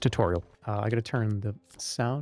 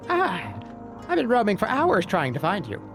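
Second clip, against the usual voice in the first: goblin voice; 3 semitones higher than usual. Acted. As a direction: play a scheming little goblin. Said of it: "goblin speaks, voiced".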